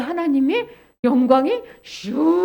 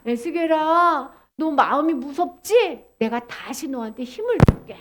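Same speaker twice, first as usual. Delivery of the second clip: gentle reassurance. Acted. God reassuring frightened Ezekiel, slow and gentle. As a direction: comfort unhurriedly, easing down.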